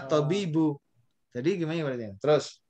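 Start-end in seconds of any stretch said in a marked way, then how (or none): 0.0-0.8 "at-tobibu" with the lam merged into the t; teacher's example reading of "at-tobibu"; demonstrated Arabic reading. Shown as a demonstration. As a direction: model "at-tobibu", lam left silent. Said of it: "Kalau begini".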